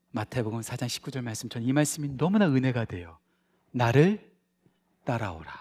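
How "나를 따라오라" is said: solemn quote. Acted. Quoting Jesus solemnly.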